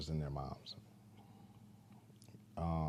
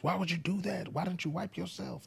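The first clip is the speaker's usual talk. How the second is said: mock yelling daughter; 12 semitones higher, 3 dB quieter than usual. Father retelling his daughter scolding her brother, high mock scold. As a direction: imitate a nagging older sister. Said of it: "I've heard you yelling".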